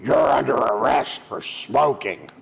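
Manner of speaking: gruff cop voice, lightly done; a hint of a gravelly arresting officer. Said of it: "this gravelly voice would come on and say".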